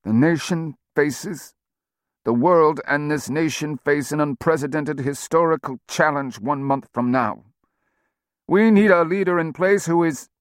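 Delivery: slow words through clenched teeth. A narrator's reading. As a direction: force it out slowly, jaw tight. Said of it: "He spoke slowly, teeth clenched".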